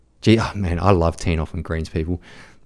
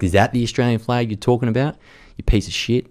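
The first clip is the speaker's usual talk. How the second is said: higher, heated retort; veteran's fury at someone running down the flag; angry retort; 5 semitones higher than usual. Retold or imitated. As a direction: spit it out at him in anger. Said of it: "you can see my passion".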